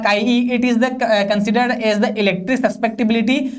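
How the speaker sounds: slow, even reading for students to copy; slow dictation. Shown as a demonstration. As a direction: dictate each word slowly so they can write. Dictating a definition. (धीमे-धीमे notes लिखवाना)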